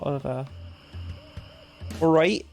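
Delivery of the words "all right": put-on rising Cornish accent. Streamer imitates the speech of a Cornish stepdad, Cornish accent. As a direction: say it with a light Cornish lilt.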